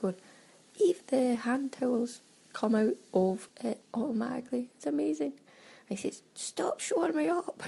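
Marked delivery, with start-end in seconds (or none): 0.8-5.3 mock amazement. Quotes companion marvelling at towels. 6.3-7.6 mock telling-off. Embarrassed telling-off.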